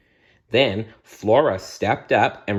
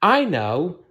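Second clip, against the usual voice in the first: crying out suddenly; 9 semitones higher than usual. Acted. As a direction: blurt it as it dawns on you. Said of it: "Aurora cried suddenly".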